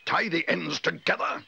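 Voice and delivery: slow, high-pitched outraged echo; indignant drawn-out bellow. A narrator's reading. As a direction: bellow it back in disbelief, word by word. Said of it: "bellowed Mister Curry".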